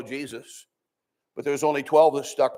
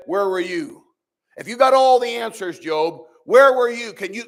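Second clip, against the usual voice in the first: God challenging Job; 5 semitones higher than usual. Acted. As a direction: press each question like a booming challenge.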